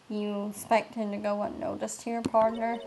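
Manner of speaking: put-on understated country cowboy accent. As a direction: address them as partner in a country accent. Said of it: "get to do a country accent".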